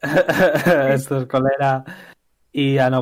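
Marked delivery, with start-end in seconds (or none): 0.0-1.8 slow words through laughter; laughing. Real, not acted. Laughing while speaking.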